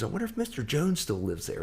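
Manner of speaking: high-pitched retold wondering; excited rock star. Rock star spotting an old neighbour's house, eagerly curious. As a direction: imitate sudden eager curiosity, voice lifted high.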